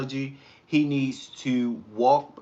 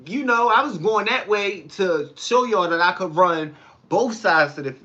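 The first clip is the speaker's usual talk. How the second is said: playing it off; 5 semitones higher, 3 dB louder than usual. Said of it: "try to play it off".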